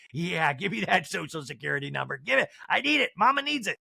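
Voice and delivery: hammed-up grabby imitation; Jen Shah. Jen Shah after the social security number, mock greedy. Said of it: "this is a perfect dinner for Jen Shah".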